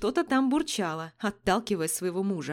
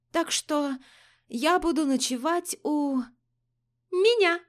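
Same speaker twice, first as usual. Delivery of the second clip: громко заявила; 6 semitones higher, slower than usual. Acted. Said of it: "громко заявила Алина". (громкое заявление)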